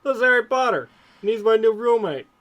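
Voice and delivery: high, loud, thrilled character voice; acted, overexcited introduction; joyous introduction. A narrator's reading. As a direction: proudly present a friend in mock screeching joy. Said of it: "Ronald screeched joyously".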